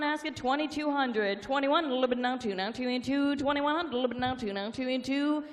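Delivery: rapid rolling auction chant; auctioneer. Real, not acted. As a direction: rattle off the bids like an auctioneer.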